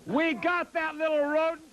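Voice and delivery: building to a ranting yell; talk-show host working up to a shout. Acted. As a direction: whip up the crowd against the rodent. Ranting host rails at Noriega.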